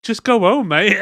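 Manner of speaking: high, loud voice breaking into laughter; laughing quote. Retold or imitated. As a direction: exclaim it, cracking up at the end. Voices exasperated reply, laughing.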